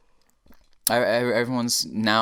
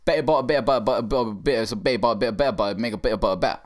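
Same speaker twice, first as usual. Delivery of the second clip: louder tongue twister mashed into B sounds in mock Scottish; exaggerated Scottish babble, swallowed Ts; mock Scottish accent; 3 semitones higher, 5 dB louder than usual. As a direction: do a hammed-up Scottish accent, every word blurring alike. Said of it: "if you say it with a Scottish accent".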